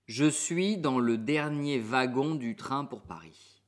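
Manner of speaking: slow, even French sentence; slow clear model sentence. Shown as a demonstration. Teacher models the sentence slowly for students. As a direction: say it slowly for learners.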